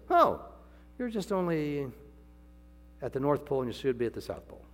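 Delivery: high, loud divine rebuke; voicing the Lord. The Lord scolding proud Paul, loud high voice. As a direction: boom out God's correction.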